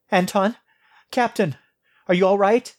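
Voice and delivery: anxiously calling into the intercom. Acted.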